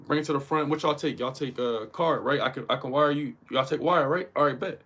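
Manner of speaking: mildly assertive big-spender act; moneyed boss talk. Acted. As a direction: order it like a buyer with money. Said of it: "he sound like he talking about some money".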